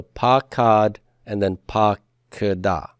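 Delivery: pakad, then pakada, slowly syllable by syllable; spaced-out teacher's pakad and pakada; slow model pronunciation. Shown as a demonstration. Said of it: "say that with me".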